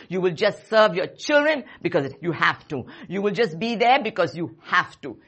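loud, emphatic sermon delivery; forceful preaching. Real, not acted. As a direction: drive each warning home, stressing the key words.

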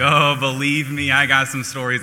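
eager, relishing the chance to tell; gleeful wife. Retold or imitated. Wife teasing her husband about his blunders, gleeful. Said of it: "she's wetting her beak".

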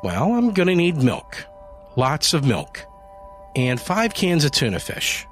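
high, chirpy and cheerful; breezy happy shopper; bright cheerful. A narrator's reading. Cheerful Janie at the store.

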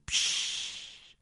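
soft, drawn-out shush; hushing. Acted. People silence someone with a vision, soft hushing. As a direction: let out a long "psch".

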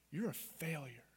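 low, soft accusing tone; mock evil voice. Evil passing judgement on you, quietly accusing. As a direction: quietly pronounce it as a cold verdict. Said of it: "anger and frustration and bitterness".

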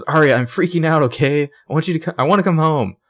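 mock-frantic plea to come home; freaking out. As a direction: rush the plea, high and panicked. Spencer begs to come home.

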